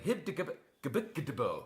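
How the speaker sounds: Cyrillic read as Latin letters; fake foreign language. Shown as a demonstration. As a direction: sound out gibberish letter by letter. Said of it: "We call it Martian".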